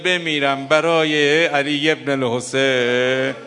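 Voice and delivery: slow, heavy mourning lament; slow mournful rawzeh wail. Real, not acted. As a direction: grieve over each word. Preacher's own grief lament.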